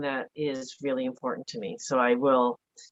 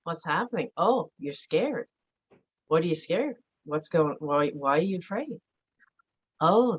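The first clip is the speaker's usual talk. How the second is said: soothing self-talk. Retold or imitated. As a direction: gently talk yourself down from a memory. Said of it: "So I will talk to my, my way right through something".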